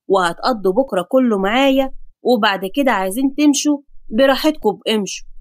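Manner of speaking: a hint of a bossy grandpa, pitched a little down; lightly voiced grandfather. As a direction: lay down the law lightly as grandpa.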